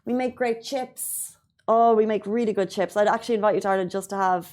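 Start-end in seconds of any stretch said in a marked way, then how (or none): 0.0-1.4 slow and soft, savoring every word; drawn out and quiet, like tasting it. Acted. Boasting about Irish chips.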